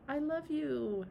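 gentle acted reassurance; soothing. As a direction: soothe someone who is crying. Soothes the crying alcoholic.

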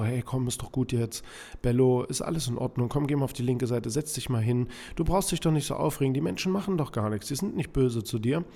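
imitating an owner chattering calmly to a stressed dog; half-hearted mock reassurance, rattled off in full sentences; soothing dog owner. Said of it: "Menschen sagen halt so".

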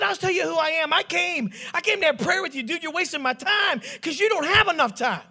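worked-up mock lecture; indignant telling-off. Retells telling off the patient.

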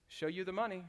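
a soft, puzzled echo of the line; puzzled quiet echo. Retold or imitated. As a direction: ask it back softly, unsure. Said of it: "And Tom Cruise says".

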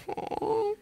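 high, soft "Oh"; surprised oh. Retold or imitated. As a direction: caught off guard, pleasantly. Surprised by the unexpected compliment.

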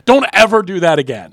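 boss's loud, firm reprimand; retold scolding. Host imitating the GM telling him off, loud scolding. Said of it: "totally roasted me".

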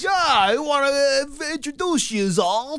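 high, loud caricature of New England speech; mock New England accent. Co-host joins in as the cousin, mock New England accent. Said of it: "really thick New England accents".

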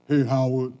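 first call from across the street. Retold or imitated. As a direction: catch his attention from a distance. Stranger calling across street.

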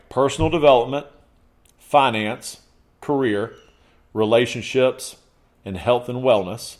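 measured list with a pause after each item. Real, not acted. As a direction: give each category room, one at a time. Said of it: "Say it again slower".

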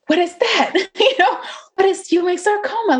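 high, baffled mock disbelief; startled question, lightly acted; retold bewilderment. Retold shock at unknown diagnosis.

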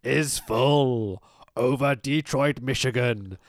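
slow, grand cult-leader intoning; lightly voiced wrestling villain, slowed and portentous; mock Taskmaster promo. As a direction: ham up a mystical villain promo. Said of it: "And he goes".

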